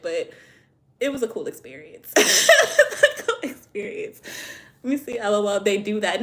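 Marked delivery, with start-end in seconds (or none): 2.2-4.2 high, drawn-out words through loud laughter; laughing. Real, not acted. Streamer summing up donut story to viewers, laughing hard. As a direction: repeat it while cracking up. Cracks up repeating herself.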